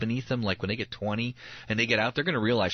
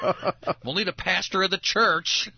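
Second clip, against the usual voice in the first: laughing; 9 semitones higher, 4 dB louder than usual. Retold or imitated. Laughing disbelief at accusation.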